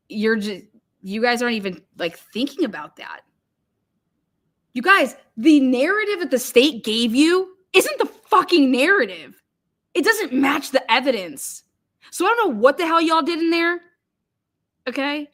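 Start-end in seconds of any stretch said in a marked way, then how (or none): 4.7-15.3 indignant rant, pitched up on key words; pissed off. Real, not acted. Streamer scolding the jurors over the narrative, pissed off. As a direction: rant at them, pissed and emphatic. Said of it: "I am pissed".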